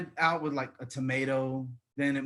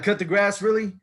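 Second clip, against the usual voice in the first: louder, questioning disbelief; incredulous echo; 3 semitones higher, 5 dB louder than usual. Acted. New hire echoing the boss's request, incredulous. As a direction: throw the request back in disbelief.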